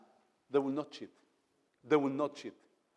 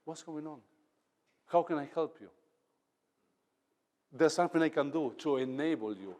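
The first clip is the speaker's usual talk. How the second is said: caring leader; 3 semitones lower than usual. Retold or imitated. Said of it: "sit down at your level and say".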